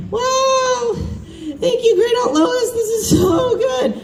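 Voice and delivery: high, bright-eyed mock delight, pushed almost to a shout; fake gushing praise. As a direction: oversell the compliment through gritted politeness. Faking delight to great aunt.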